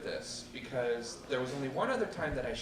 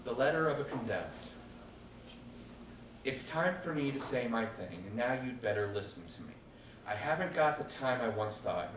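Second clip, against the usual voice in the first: measured spoken-word poem; poetry reading. Acted. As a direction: recite the poem with weight. Performs her poem.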